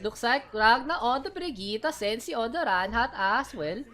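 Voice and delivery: put-on slow, lilting Swedish accent. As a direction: cast the picks in a Swedish accent. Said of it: "I'll just do a Swedish accent".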